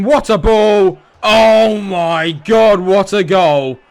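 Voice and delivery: loud high excited shout; goal celebration. Real, not acted. Gamer celebrating a great goal, loud excited cheer. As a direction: cheer like you can't believe it.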